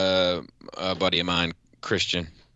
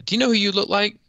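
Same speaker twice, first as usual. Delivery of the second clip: mocking woman; 4 dB louder, faster than usual. Acted quote of buddy's wife.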